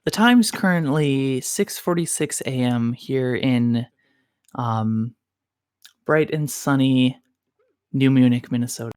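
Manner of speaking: a hint of public-radio morning host; lightly put-on ASMR-style radio voice; NPR radio voice. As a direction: read the time like an NPR host. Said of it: "also known as my N P R voice".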